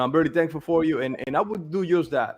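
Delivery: low, easing imitation of a grateful client; relieved, thankful. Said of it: "that he was relieved".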